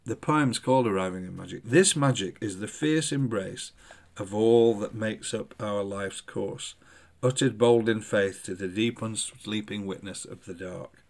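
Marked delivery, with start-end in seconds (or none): 1.6-11.0 measured, deliberate poem recital; poem reading. Acted. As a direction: read the lines like a poet sharing his work. Reads his own poem aloud.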